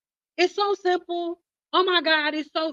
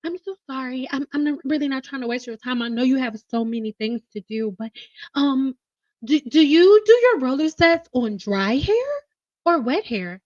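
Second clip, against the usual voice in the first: sweet apologetic caller. Retold or imitated. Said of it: "you're just like".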